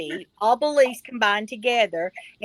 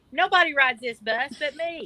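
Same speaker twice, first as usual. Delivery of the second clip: catchphrase shout; 4 semitones higher than usual. Acted. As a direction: belt out the signature line. Signature catchphrase called out.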